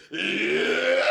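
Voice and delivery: half-hearted scream from the diaphragm; mild mock yell. Retelling a streamer's scream, mock yell. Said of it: "let out a visceral scream".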